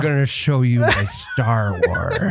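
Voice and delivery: creepy villain voice. Pretend. Continues toy villain bit.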